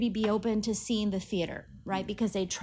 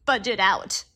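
tearful; 3 semitones higher than usual. Real, not acted. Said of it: "tears filled their eyes".

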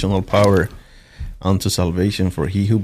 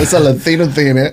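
teasing; 7 semitones higher, 5 dB louder than usual. Real, not acted. Teasing remark.

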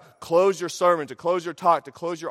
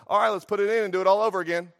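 brisk doctor; 3 semitones higher, 4 dB louder, faster than usual. Retold or imitated. Doctor casually orders labor redone.

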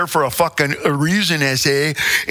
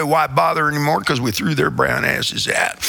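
hammed-up Southern accent; put-on Southern accent. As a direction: quote it in a folksy Southern accent. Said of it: "do you want me to do it with the accent?".

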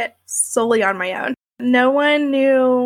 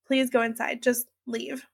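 softer, urgent hushed plea; hushed plea to the boyfriend, keeping a coworker away; pleading softly; 7 dB quieter than usual. Retold or imitated. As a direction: beg quietly so nobody hears. Begging him to let coworker go.

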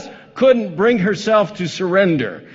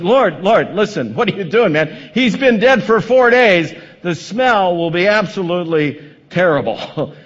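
exasperated Martha; 2 semitones higher, 5 dB louder than usual. Acted. Martha objecting to Jesus.

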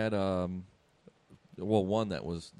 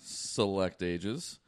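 ringmaster; 4 dB louder than usual. Acted. Show host opening announcement.

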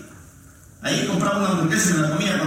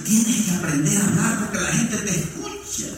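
gentle scolding wife; 2 semitones higher than usual. Retold or imitated. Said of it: "Regañándome con regañada santa".

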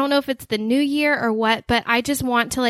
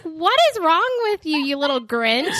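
mock exasperated; 5 semitones higher than usual. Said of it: "And I'm like".

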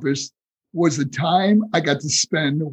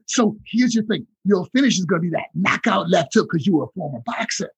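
Dusty Rhodes. Retold or imitated. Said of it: "And then he goes".

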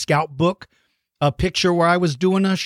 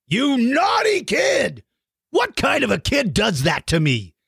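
mock outrage; 7 semitones higher than usual. Host to Eva who drew him eaten, mock outraged. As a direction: wail it in hammed-up indignation, starting high.

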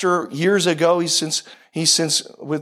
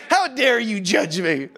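slow, drawn-out indignation; slow mock affront; mock offended; slower than usual. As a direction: imitate an affronted friend, spacing the words. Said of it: "the look on his face".

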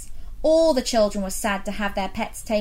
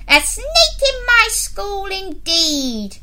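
scoff, then send them back sharply; indignant headmistress; 8 semitones higher, 6 dB louder than usual. Acted. Headmistress scolding the class.

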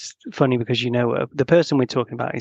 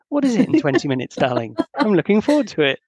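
higher, teasing sweet-talk to a partner; playful; 6 semitones higher than usual. Acted. Boyfriend answering partner's request for twenty minutes, playfully. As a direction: tease your partner playfully. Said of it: "Being a bit more playful".

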